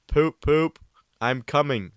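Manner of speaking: shouted poop poop, high and loud; loud mock whistle call. Gordon hams up his arrival, shouting.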